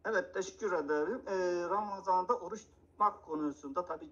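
Nihat Hatipoğlu impression. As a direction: play the calm TV imam explaining patiently. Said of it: "İmam Hatipoğlu taklidi gelsin". (hafif bir Nihat Hatipoğlu taklidi)

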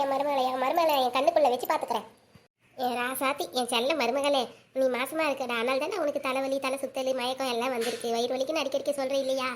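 low, soft, doting tone; tender fondness. Acted. Mother-in-law telling her darling daughter-in-law she's pregnant, tenderly. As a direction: gently coo the happy news to her.

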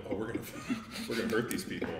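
giggling through a mock threat; laughing menace, half joking. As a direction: chuckle while promising to hurt them. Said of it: "start kinda giggling a little".

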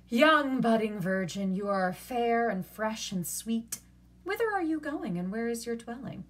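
sweetly exaggerated courtesy; overdone flattery. A narrator's reading. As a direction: lay the praise on thick. Catherine flattering the old man.

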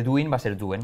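first "doing" as spelt, then "doing" as "duen"; corrected ending. Shown as a demonstration. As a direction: turn "doing" into "duen", like duende without the de. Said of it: "Como duende, pero sin de".

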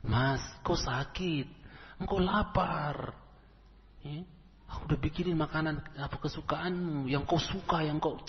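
bujukan pelan dan lembut kepada suami; membujuk lembut. Retold or imitated. Istri membujuk suami yang sakit. (istri membujuk suaminya yang sakit dengan lembut)

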